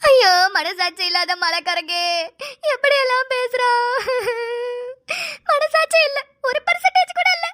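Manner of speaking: overdone fake crying and pleading; fake wailing. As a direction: cry theatrically to guilt him. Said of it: "என்னம்மா நடிக்கிறாயா".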